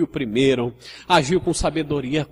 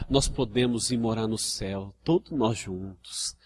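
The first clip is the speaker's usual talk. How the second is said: loving gentle preaching; 3 semitones lower than usual. Shown as a demonstration. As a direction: confess together like a caring brother. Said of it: "eu posso falar com muito amor".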